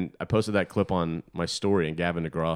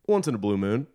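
weird guy voice; 3 semitones higher, 4 dB louder than usual. Retold or imitated. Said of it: "how a weird guy might react".

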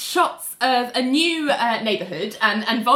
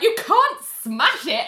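mock protest, higher and slow; retold upset; 6 semitones higher, slower than usual. Retelling John pleading for his toilet, mock upset. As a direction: imitate him objecting, drawn out and indignant. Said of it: "he's really upset".

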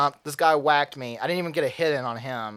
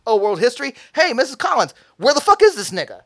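mock hick staff; 9 semitones higher, 8 dB louder than usual. Staff calling the history teacher, mocking and loud. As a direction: parody the clueless staff.

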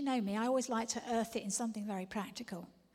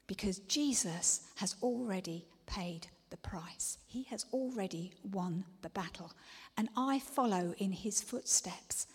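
hushed, awed whispering; reverent whisper; 2 semitones lower than usual. Acted. Whispered sermon testimony.

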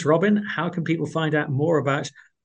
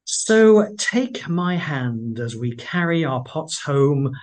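slow, measured verse reading; poem recitation; slower than usual. Acted. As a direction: recite the verse slowly, line by line. Reads a poem's final verse.

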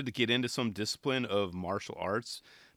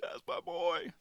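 Tony, softer repeat; 4 semitones higher, 5 dB quieter, slower than usual. Retold or imitated. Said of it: "you could hear it in his voice, kinda crackled".

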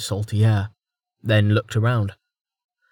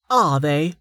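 cold; 5 semitones higher than usual. Acted. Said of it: "tone suddenly colder than their frozen".

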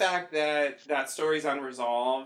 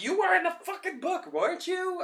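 mock exasperated; 13 semitones higher than usual. Voiced exasperated rant at Kevin.

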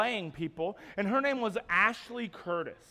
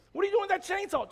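high-pitched comic alarm; scared paralyzed man; 11 semitones higher, 3 dB louder, much faster than usual. Acted. Paralyzed man seeing his friend's chainsaw, panicked. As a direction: question it in hammed-up panic. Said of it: "This guy must be so scared".

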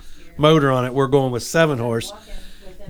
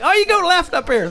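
put-on high, sweet old lady voice; little old ladies. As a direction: play the kindly old ladies on the john boat. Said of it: "And they're like".

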